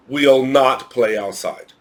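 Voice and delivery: "we'll not play outside" said slowly and carefully as the wrong form; slow wrong example. Shown as a demonstration. Teacher warns students off the wrong form, slow and careful. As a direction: read the bad sentence slowly. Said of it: "You should never write".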